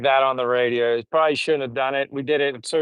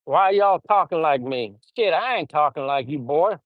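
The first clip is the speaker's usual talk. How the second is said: put-on Southern accent; 2 semitones higher than usual. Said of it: "Southern accent".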